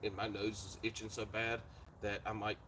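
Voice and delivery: muffled through a rubber mask; talking behind a face mask; inside a rubber mask. Real, not acted. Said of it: "mine's not hard to breathe 'cause I gotta get a big mouth hole".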